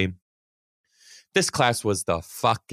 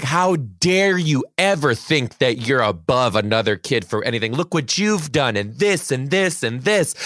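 raised, scolding retelling; berating; 3 semitones higher than usual. Retold or imitated. Teacher berating a student in front of everybody, scolding. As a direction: re-enact telling off a kid. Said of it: "berated her in front of everybody".

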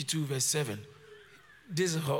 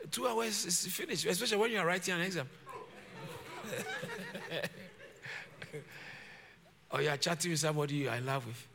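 chuckling through the words; laughing while talking; 2 semitones lower, 5 dB quieter, faster than usual. Real, not acted. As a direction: talk with a laugh.

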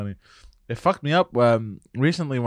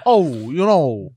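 slow dopey mumble; 3 dB louder, slower than usual. Pretend. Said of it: "I thought he was gonna say something like".

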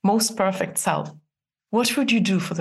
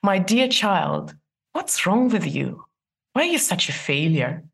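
tender self-talk. Shown as a demonstration.

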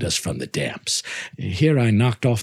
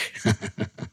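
Fortunato's laugh; 7 dB quieter than usual. Acted. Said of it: "He laughed".

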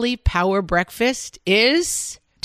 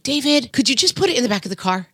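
snippy request; 5 semitones higher, faster than usual. Retold or imitated. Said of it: "I'm like".

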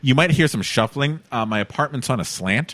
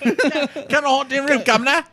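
put-on Cockney accent; 13 semitones higher than usual. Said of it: "I don't know why it was Cockney".

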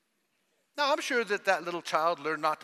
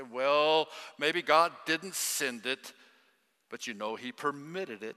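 slow, lowered know-it-all tone; mock wise voice; 3 semitones lower, slower than usual. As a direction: imitate people trying to sound wise. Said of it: "here's how they say it".

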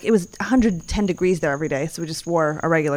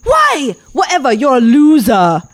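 rude tout; 5 semitones higher, 6 dB louder, slower than usual. Retold or imitated. Tout insults her.

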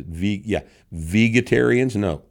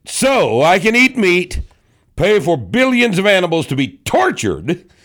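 mocking read-out; 7 semitones higher, 3 dB louder than usual. Host reading a hater's comment, high loud mocking declamation. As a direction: hammer the key words in exaggerated mock outrage.

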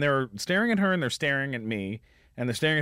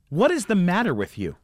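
acted indignant question, restrained; retold scolding, only slightly raised; mildly indignant woman; 3 semitones higher than usual. Retold angry lady confronts him.

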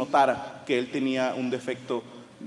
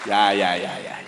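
calming hush; 9 semitones lower than usual. Retold or imitated. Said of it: "y mi vieja dijo".

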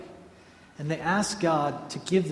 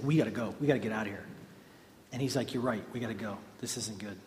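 spooked; 6 semitones lower, 10 dB quieter, faster than usual. Retold or imitated. Scary guys spooked, leaving.

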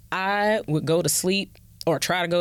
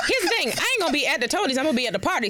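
laughing; 8 semitones higher, much faster than usual. Real, not acted. Laughing while telling Tony plans.

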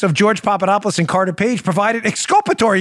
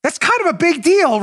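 dry mock understatement, pitched up; sarcastic; 8 semitones higher than usual. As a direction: play it down with a wink.

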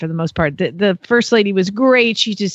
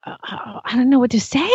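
retold loss for words; dumbfounded stammer; 2 semitones higher than usual. Trainer reacting to owner's bad advice, dumbfounded.

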